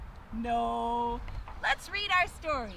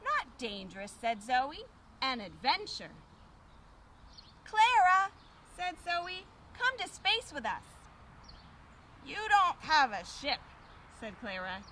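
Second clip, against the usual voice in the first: put-on reading to children; 3 semitones lower, slower than usual. A narrator's reading. Reading picture book to children.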